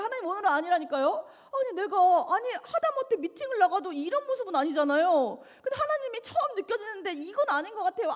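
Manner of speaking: high, fast, exasperated pleading with God; annoyed protest. Retold or imitated. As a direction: huff it out like an irritated young woman arguing. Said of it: "제가 또 화를 냈어요". (짜증 섞인 높은 항의)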